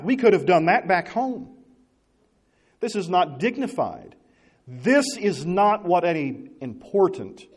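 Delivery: haughty, slowing on important; mock indignant Naaman. Preacher voicing proud Naaman's complaint, haughty. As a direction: drag out important like a wounded ego. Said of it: "And he says".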